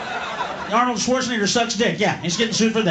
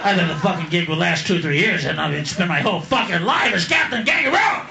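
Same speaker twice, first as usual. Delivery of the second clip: bitter Captain Kangaroo; 4 semitones lower than usual. Retold or imitated. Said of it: "He looked like a heavy fucking drinker".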